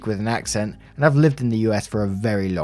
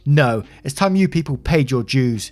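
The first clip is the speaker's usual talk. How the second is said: higher-pitched, vindictive insistence; acted forceful ordering; angry demand; 4 semitones higher than usual. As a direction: insist they pay, indignant. Mother demands payment.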